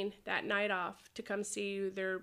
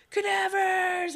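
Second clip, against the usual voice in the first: excited name; 10 semitones higher, 7 dB louder, slower than usual. Retold or imitated. Fans naming her old team.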